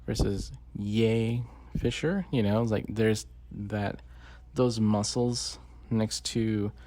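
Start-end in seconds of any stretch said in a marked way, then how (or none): 0.8-2.2 "Ye" drawn out slowly before "Fisher"; slow, exaggerated "Ye", then "Fisher"; contrasting pronunciation. Shown as a demonstration. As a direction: stretch "Ye" in "Ye Fisher" as a demonstration. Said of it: "his muscles were quite different".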